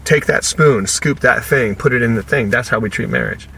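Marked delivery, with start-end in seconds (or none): 0.0-2.5 bossy parent. Retold or imitated. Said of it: "parent is telling the child what to do".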